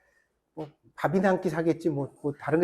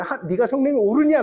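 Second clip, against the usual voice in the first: God asking; 6 semitones higher, 4 dB louder than usual. Retold or imitated. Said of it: "그래요".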